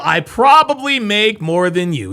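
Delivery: loud sneering imitation; mock her bragging, loudly; mocking quote. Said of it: "Now she's in her feelings".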